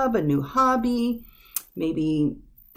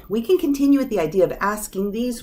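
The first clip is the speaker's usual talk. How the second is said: whispered aside; 2 semitones higher than usual. Real, not acted.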